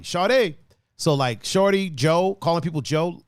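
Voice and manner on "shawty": "Shawty" with the last syllable drawn to "-tay"; DC pronunciation. Shown as a demonstration. Streamer repeating DC slang for effect, DC pronunciation. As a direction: stretch "Shawty" into "shaw-tay". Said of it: "And it's shawty".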